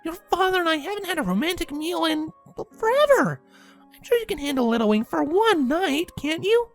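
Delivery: very high, wheedling mom voice; high-pitched coaxing; half pleading. A narrator's reading. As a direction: plead lightly in a high mother's voice. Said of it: "Windy half pleaded".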